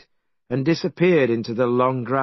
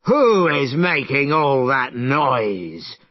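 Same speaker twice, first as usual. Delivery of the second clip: angry dragon; slower than usual. Acted. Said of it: "it shouted angrily".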